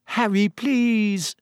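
high, drawn-out, tearful plea; tearful pleading. A narrator's reading. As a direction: beg slowly, close to tears. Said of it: "her eyes now shining with tears".

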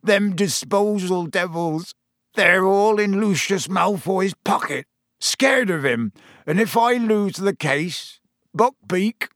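a big man close to sobbing; lightly voiced Hagrid in mild distress; tearful despair. A narrator's reading. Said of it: "sobbed Hagrid".

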